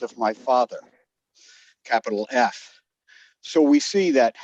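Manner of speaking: breathless, catching breath between phrases. Real, not acted. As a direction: talk while winded from running. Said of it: "I'm out of breath here".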